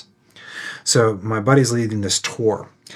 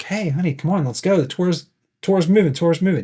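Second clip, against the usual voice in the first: calling out to her husband, higher; mild retold holler to a straggler; 7 semitones higher than usual. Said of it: "hollers back at".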